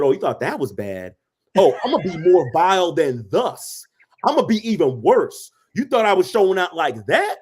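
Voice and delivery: hammed-up, brazen boast; defiant comeback. David answering his scornful wife, playfully defiant. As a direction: answer a scolding by daring to do worse.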